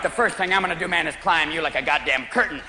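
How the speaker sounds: a hint of cool threat, pitch dropping; menacing stoned cat. Cat warns its owner, lightly voiced low menace. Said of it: "He looks at you like".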